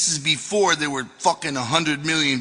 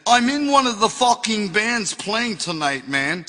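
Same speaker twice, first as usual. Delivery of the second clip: indignant bad English accent, pitched up; a singer, bad English accent; 5 semitones higher than usual. Musician protesting at the dressing room door, bad English accent. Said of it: "shitty English accent".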